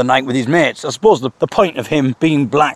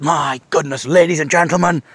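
enthusiastic. Retold or imitated. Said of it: "he became so enthusiastic".

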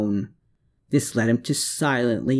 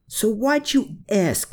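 raised, biting snarl of a question; 11 semitones higher than usual. A narrator's reading. Klaus snarls at Herman, raised and biting. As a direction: spit the question back at him. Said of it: "Klaus snarled".

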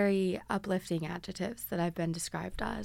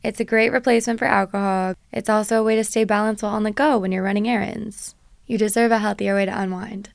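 bright, punchy sponsor read; upbeat ad read; 9 dB louder than usual. Acted. Host reading a sponsor ad to listeners, upbeat and punchy. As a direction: sell it like a radio spot.

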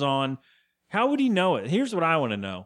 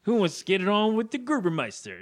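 higher-pitched imitation of a cocky partygoer; drunken teen character; 6 semitones higher than usual. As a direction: play a tipsy kid addressing the crowd. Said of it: "And he's like".

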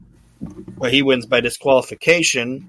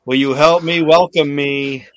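a louder, lightly voiced announcer flub; mock Vince blunder; 6 dB louder than usual. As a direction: announce it proudly and get it wrong. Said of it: "This is what he says".

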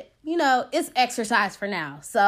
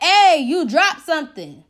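raised, higher mock yell; mock holler after passers-by; retold yelling; 4 semitones higher, 5 dB louder than usual. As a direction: imitate a man calling down the street. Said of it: "He's yelling down the street like".

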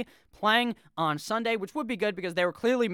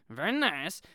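comic foreign-accent catchphrase impression; Borat; slower than usual. Host showing off his better impression, Borat accent. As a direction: toss off a film catchphrase in a mock foreign accent. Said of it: "I do a better Borat accent".

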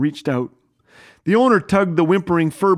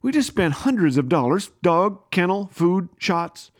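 said through gritted teeth. Retold or imitated. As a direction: grit your teeth and push it out. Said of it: "I said through my teeth".

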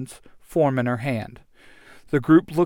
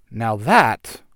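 slow impressed cool; 2 semitones lower, much slower than usual. Acted. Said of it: "the Red Ranger says".

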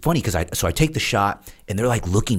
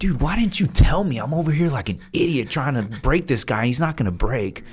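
embarrassed instructor; 7 semitones higher than usual. Retold or imitated. Instructor learns he is a seal, high embarrassed voice. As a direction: whine like a caught-out instructor. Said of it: "He's like".

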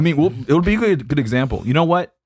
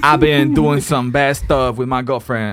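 mock prayer; 2 semitones higher than usual. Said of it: "gotta bless God real quick".

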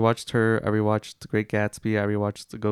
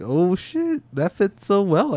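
excited; 9 semitones higher, slower than usual. Retold or imitated. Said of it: "I was like".

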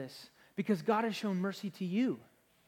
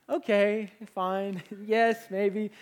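laughing concession; 3 semitones higher, 7 dB louder, much slower than usual. Retold or imitated. Pastor admits to his teasing wife, laughing.

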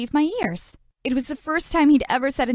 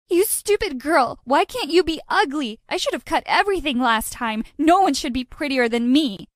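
wicked stepmother; 3 semitones higher than usual. Acted. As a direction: snarl it like a jealous villain. Psycho girl attacks with scissors.

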